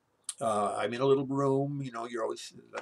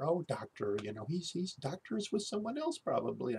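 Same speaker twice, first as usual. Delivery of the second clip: chirpy nurse; 6 semitones higher than usual. Retold or imitated. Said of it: "she's just chatting away".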